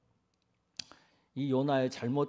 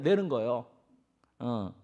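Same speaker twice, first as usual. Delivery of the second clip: usual speaking voice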